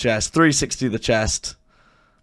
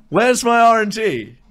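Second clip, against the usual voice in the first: high, indignant complaint about luck; exasperated outcry; 10 semitones higher, 3 dB louder than usual. Real, not acted. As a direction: wail it high in frustration. Frustrated by bad luck.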